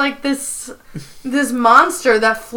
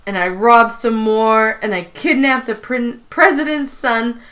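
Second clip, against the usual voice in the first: Prison Mike. Retold or imitated. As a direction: confess as a mildly voiced New York convict. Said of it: "really bad New York accent".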